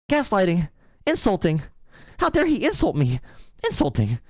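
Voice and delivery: high indignant mock whine. Streamer mocking a crybaby caller, whiny. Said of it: "do you wanna cry more?".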